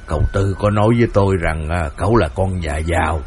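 the wry husband confiding a lesson learned; husband, amused. Acted. Thầy Thông Hàn cười nói với vợ, giọng trầm tinh quái.

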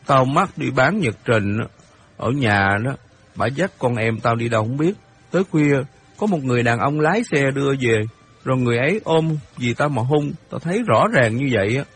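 put-on mildly heated boy making an accusation; lightly voiced indignant boy Hiệp. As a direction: protest with restrained outrage.

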